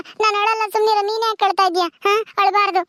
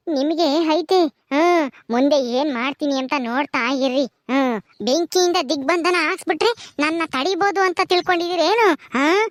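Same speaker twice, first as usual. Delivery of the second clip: vengeful ghost; 3 semitones lower than usual. Acted. Ghost vows revenge on mother-in-law, low menace. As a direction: lower menacing growl of revenge.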